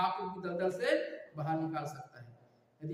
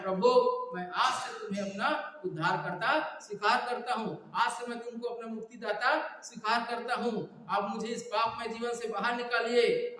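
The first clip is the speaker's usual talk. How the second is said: higher, insistent model prayer; calling on God; 5 semitones higher, 5 dB louder than usual. Shown as a demonstration. Preacher shows congregation how to accept the Saviour, calling on God. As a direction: lead them in crying out to the Lord. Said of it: "प्रभु यीशु मसीह को पुकारना है".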